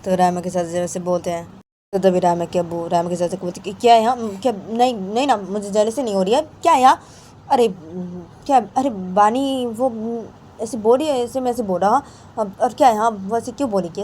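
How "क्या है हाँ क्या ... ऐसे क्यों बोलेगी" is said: raised, defensive protest; acted defensive denial. Raima's abbu denying jealousy to chacha, acted defensive protest. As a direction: push back at the accusation.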